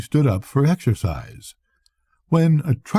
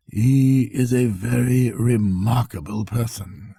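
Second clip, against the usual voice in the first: said slowly. Acted.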